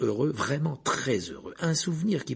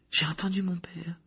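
chuchoté bouleversé; 6 semitones higher than usual. Acted. Harry bouleversé après la vision.

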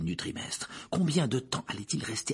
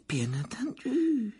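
with a little laugh; 12 semitones higher, 3 dB quieter, slower than usual. A narrator's reading. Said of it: "avec un petit rire".

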